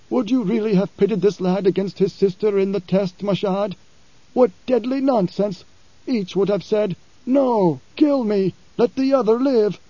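lightly voiced preacher scoffing at the test. Paul scorning the deadly test, indignant.

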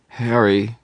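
desperate weak cry; thready voice. A narrator's reading. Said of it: "her voice thready".

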